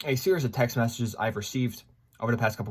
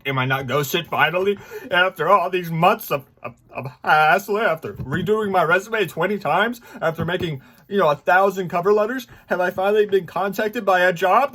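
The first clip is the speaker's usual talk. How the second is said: imitating excited hope; 6 semitones higher, 5 dB louder than usual. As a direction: act out his own hopeful excitement at finally getting a job call. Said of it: "I get excited 'cause I'm like".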